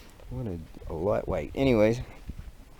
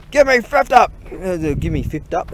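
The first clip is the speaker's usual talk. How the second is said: much higher, much louder barked order; drill sergeant yell; 9 semitones higher, 11 dB louder than usual. Pretend. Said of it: "Drill Sergeant".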